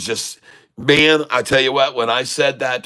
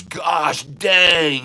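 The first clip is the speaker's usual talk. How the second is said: amazed shout; 6 semitones higher than usual. Retold or imitated. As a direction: shout it like a stunned kid. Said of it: "he goes".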